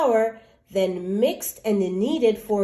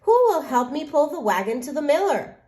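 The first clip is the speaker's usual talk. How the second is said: brisk hen; 5 semitones higher, 3 dB louder, faster than usual. Acted. Hen asks urgently.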